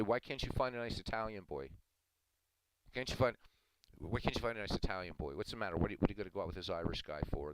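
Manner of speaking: lightly voiced scolding grandmother, exasperated; nagging grandmother. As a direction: nag like a grandma who wants an Italian boy. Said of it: "my grandmother would say".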